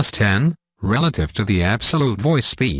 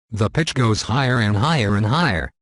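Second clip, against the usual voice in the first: pitch rising. Shown as a demonstration. Tutorial giving an example of the pitch, pitch rising. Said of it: "Let's hear an example of the pitch".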